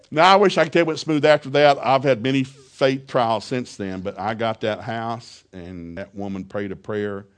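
ordinary talk, nothing marked

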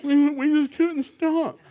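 put-on high, slow whiny teen voice; hammed-up teen whining; mock crying kids. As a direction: imitate a pleading sobbing teenager. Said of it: "I've had 'em cry".

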